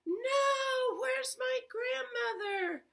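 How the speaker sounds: storyteller's hint of a panicked girl; mild mock scream. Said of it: "was shouting and screaming".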